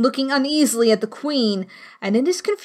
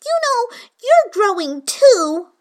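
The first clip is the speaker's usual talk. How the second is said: bold; 11 semitones higher, 5 dB louder, slower than usual. A narrator's reading. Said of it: "said Alice more boldly".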